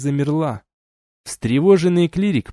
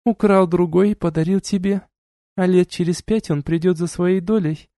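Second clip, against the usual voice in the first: duchess voiced higher, cool and lecturing; stern duchess; 6 semitones higher than usual. A narrator's reading. Duchess reproaching the couple, cool and lecturing. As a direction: scold them like a haughty duchess.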